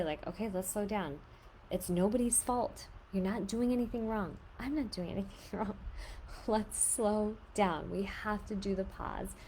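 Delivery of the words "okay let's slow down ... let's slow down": put-on calm the kids down gently; calm soothing. Shown as a demonstration. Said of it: "I usually say".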